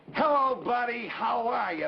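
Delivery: friendly hello. Shown as a demonstration. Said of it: "It means".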